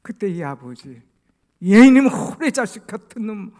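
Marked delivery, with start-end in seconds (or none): 1.6-3.5 loud, high acted roar; mock furious paternal shout; scolding father. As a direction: burst out berating your son. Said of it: "혼내지 않고".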